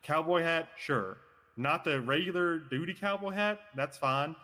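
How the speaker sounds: lazy southern cowboy drawl; southern accent. Pretend. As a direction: talk like a Texas cowboy. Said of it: "I don't know why I'm in a southern accent right now".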